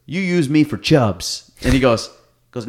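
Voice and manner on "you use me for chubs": slow and a bit higher; hobbling relative complaining, slow and hammed-up; mock accusation. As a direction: drag it out like a grumbling old man.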